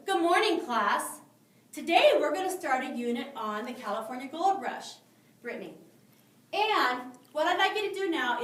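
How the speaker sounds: loud, bright teacher voice calling across the room; breezy classroom announcement, discipline in passing; drive-by discipline. Shown as a demonstration. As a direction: rush through the lesson, tossing her name in. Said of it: "This is what we call drive-by discipline".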